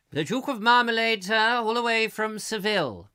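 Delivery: high, loud hammed-up Spanish waiter. Host jokingly announces the Duke as a Spanish waiter. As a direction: announce him grandly like a waiter from Seville.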